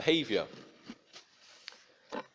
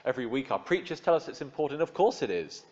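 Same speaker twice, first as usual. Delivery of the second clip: indignant protest; 6 semitones higher than usual. Retold or imitated. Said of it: "we want to respond like".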